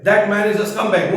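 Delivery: "scumbag" said slowly and deliberately; slow example sentence. Shown as a demonstration. Teacher giving students a simple example, slow and deliberate. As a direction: lay out the sentence word by word, slowly. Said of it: "ये simple है".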